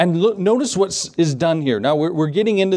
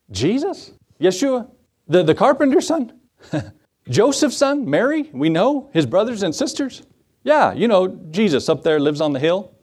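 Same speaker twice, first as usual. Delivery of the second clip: scornful townsfolk. Retold or imitated. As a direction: sneer at the carpenter's son. Hometown folks mocking Jesus.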